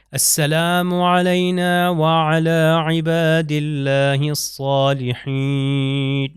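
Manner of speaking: علینا with a clear ع and long نا, very slow; slow Arabic salutation recitation. Shown as a demonstration. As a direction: recite very slowly, sound the ع of علینا. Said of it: "عین سے ہے علینا".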